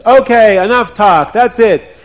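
high and loud, done talking; fed-up wife; angry snap. Acted. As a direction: cut him off hard. Wife loses patience.

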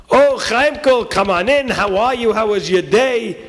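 acted motherly cheer; happy mother. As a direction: greet your child delightedly. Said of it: "What is she so happy about?".

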